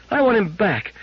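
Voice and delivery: put-on high child plea at normal pace; a girl demanding her robot back; insistent high child voice; begging child.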